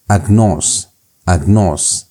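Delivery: "Agnos" with the stress on the "o" of "nos"; "agnos" said twice, leaning on the final "nos"; stress on omega. Shown as a demonstration. Teacher showing how the accent mark works, stress on the omega. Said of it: "you emphasize the omega".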